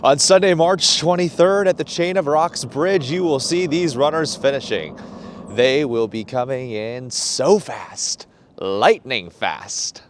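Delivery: hyped event announcer, slowing at the end. Pretend. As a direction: sell the race like a promo announcer. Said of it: "Working on my announcer voice".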